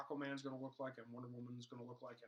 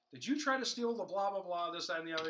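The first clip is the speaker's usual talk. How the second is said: Flash voice; 4 semitones higher, 7 dB louder than usual. Retold or imitated. Flash questioning the trickster.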